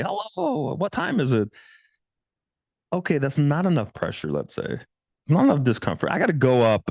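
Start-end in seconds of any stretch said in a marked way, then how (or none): 0.0-1.5 high, sweet asking-the-time voice; nice polite greeting. Retold or imitated. Approaching a stranger politely, in a high, sweet voice. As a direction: play it overly nice and harmless. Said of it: "sound nice and say".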